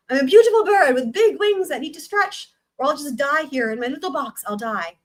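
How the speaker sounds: hammed-up Southern belle, fading at the end; Southern accent. Daughter swearing she'll die in the box, dramatic Southern accent. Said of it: "tried my best Southern accent from America".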